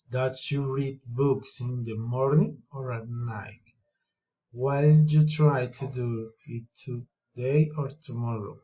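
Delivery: up on "five", "morning", "today", down on "six", "night", "tomorrow"; rise then fall. Shown as a demonstration. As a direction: offer a choice, lifting before "or" and falling after it. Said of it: "rising and feeling intonation".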